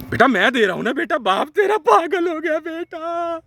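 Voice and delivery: high, slow sing-song jeer; mocking taunt. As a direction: drag it out to mock him.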